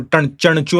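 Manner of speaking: Chanchu as chana-chu, with curled-tongue n; Chanchu, n instead of ny; wrong retroflex nasal. Shown as a demonstration. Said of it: "also we don't say".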